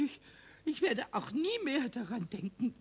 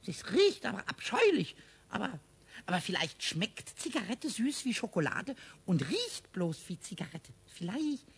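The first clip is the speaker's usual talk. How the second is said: cheeky little kobold musing aloud; curious imp mumbling to himself. Acted. Pumuckl talks to himself.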